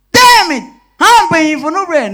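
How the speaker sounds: loud, high indignant yell; defiant shout. Acted. Thief shouting back at the guard, loud and defiant. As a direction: throw the refusal back at him.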